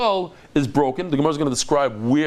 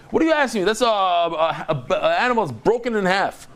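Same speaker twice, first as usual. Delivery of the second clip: mock annoyance; 2 semitones higher than usual. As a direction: act out a mildly annoyed rabbi. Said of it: "He was annoyed at them".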